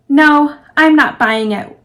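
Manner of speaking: slow, loud, defiant refusal; angry refusal. Acted. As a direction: dig in and refuse, loudly. Wes rejects comfort angrily.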